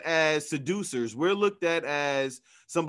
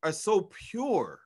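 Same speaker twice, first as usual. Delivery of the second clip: after crying; 2 semitones higher than usual. Real, not acted. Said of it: "I'm getting teary-eyed".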